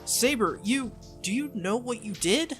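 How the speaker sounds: acted exasperated scolding; complaining. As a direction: take her to task. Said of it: "my complaints return".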